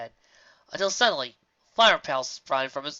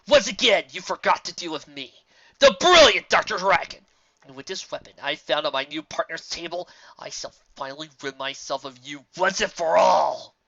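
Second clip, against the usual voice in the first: lightly hammed-up villain speech; a touch of theatrical supervillain; gloating mad scientist; 7 dB louder than usual. A narrator's reading. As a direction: declaim it, punching key phrases louder.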